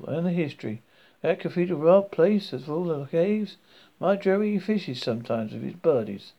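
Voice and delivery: lightly voiced Southern woman; friendly Southern accent. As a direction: gush about the island in a Southern lilt. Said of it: "speaking in a friendly southern accent".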